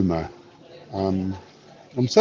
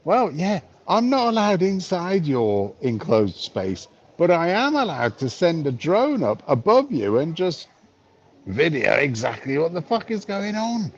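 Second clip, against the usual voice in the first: smug drone pilot; 5 semitones higher than usual. Retold or imitated. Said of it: "They use a drone merely to go up and go".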